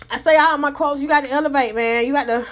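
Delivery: breathing hard between words; short of breath while talking; heavy breathing. Real, not acted. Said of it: "I'm breathing hard".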